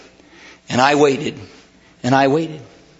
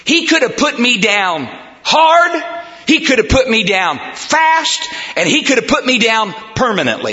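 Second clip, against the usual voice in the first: raised pitch, measured repeated cadence; emphatic preaching; 6 semitones higher than usual. Acted. Preacher on what God could have done, emphatic. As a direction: drive each repeated phrase home.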